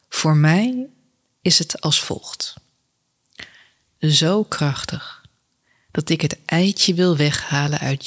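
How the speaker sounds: measured poetry reading with weighted pauses; poem recitation. Acted. Podcast host reads a love poem to listeners, measured recitation. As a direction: read it as an intimate love poem, line by line.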